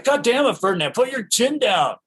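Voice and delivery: half-playful irritated scolding; mock exasperation. Fincher losing patience with the actor, mock exasperated.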